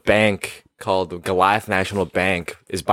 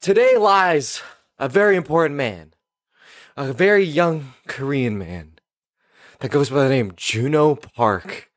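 mock eulogy; 3 semitones higher than usual. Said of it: "I'll be the guy talking at the funeral".

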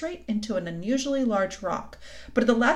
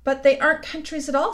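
higher, louder, amused protest; a touch of amusement, pitched up; almost laughing; 7 semitones higher, 6 dB louder than usual. A narrator's reading. Lucy corrects Mister Tumnus, almost laughing. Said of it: "almost laughing".

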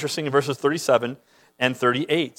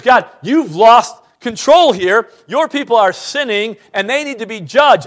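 lightly voiced prophet; 4 semitones higher, 5 dB louder than usual. Habakkuk voiced complaining to God.

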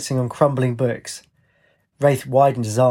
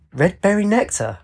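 higher, bright cry of delight; delighted shout; 7 semitones higher than usual. A narrator's reading. Shouting in delight as smoke pours from his nose. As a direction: exclaim it with glee. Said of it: "In delight, she shouted".

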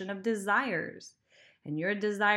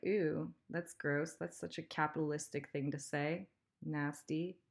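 wrinkle your nose at the idea; mock disgust; 4 semitones lower, 6 dB quieter than usual. Voices a disgusted money-hater.

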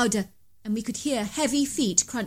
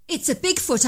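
astonished; 7 semitones higher than usual. A narrator's reading. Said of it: "I said to Ted".

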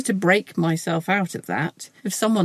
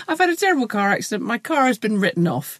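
mock moaner; 4 semitones higher, faster than usual. Acting the moaning friend.

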